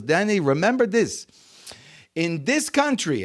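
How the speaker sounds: put-on measured advice in a light French Jewish accent. Father advises son about America, light French Jewish accent. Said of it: "in his little French Jewish accent".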